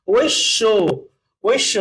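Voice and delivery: ঐশ্য as oish-sho, the sh held double; teacher modelling the double sh in ঐশ্য; doubled sh demo. Shown as a demonstration. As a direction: say ঐশ্য in careful syllables with a doubled sh. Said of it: "এরকম হবে".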